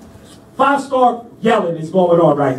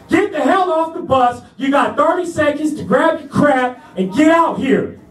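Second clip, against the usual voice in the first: retold drill sergeant yell; 5 semitones higher than usual. Sergeant storms onto the bus to clear out recruits, mock yelling. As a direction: act out a yelled order. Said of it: "They started yelling at us immediately".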